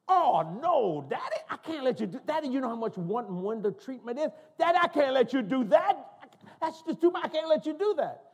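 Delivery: high, hollered mock protest; imitating protesting daughter. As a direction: wail a hammed-up refusal to Daddy. Acts out daughter's second protest.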